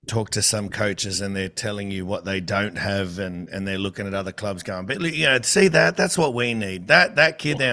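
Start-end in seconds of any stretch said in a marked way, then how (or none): 4.9-7.7 higher, eager pointing voice; hammed-up envious coach; mock envious coach. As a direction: imitate a coach coveting another club's kid. Mocking envious coaches at other clubs.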